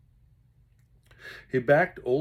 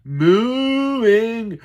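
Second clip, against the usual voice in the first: groaning moo; 11 semitones higher, 14 dB louder than usual. Acted.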